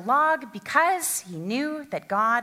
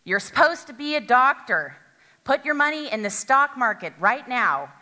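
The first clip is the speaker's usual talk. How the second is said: booming voice; 5 dB louder than usual. Pretend. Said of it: "with a booming voice from heaven".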